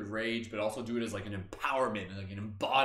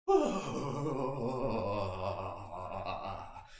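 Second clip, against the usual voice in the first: release sigh; 2 semitones lower than usual. Shown as a demonstration.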